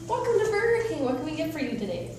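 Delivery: upselling cashier. Pretend. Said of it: "you could be my first customer service person".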